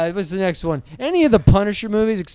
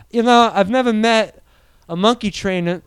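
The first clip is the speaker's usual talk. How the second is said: Walken impression; 4 semitones higher than usual. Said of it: "Christopher Walken needs his own interview show".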